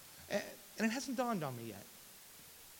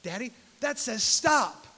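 put-on two-year-old son; 7 semitones higher, 7 dB louder, slower than usual. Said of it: "looks at me and goes".

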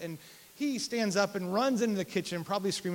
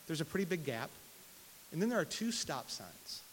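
ordinary talk

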